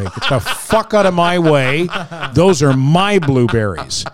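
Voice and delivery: playful mock snarl through a laugh, slow. Shopper shoving old ladies aside over sale blueberries, mock snarl. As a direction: ham up a greedy shopper guarding his berries. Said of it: "I was shoving little old ladies out of the way".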